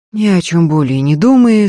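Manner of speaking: usual speaking voice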